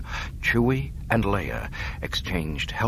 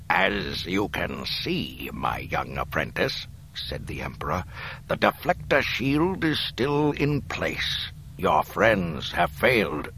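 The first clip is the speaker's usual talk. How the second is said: sinister Emperor; slower than usual. Acted. Emperor gloating to Luke.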